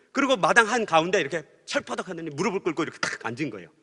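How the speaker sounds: usual speaking voice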